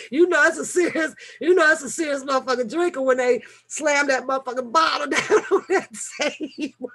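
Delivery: quick words breaking into laughter; laughing while telling. Real, not acted. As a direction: rush it, then crack up. Cracking up retelling bottle slamming.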